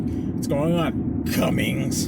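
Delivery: drawn-out mock greeting; teasing, slowed-down hail. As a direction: stretch it like a corny name joke. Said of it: "Did anyone joke with you".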